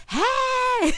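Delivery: high squealing laugh of joy; gleeful greeting. Retold or imitated. Host greeting guests, squealing laughing joy. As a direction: squeal hello like the happiest host.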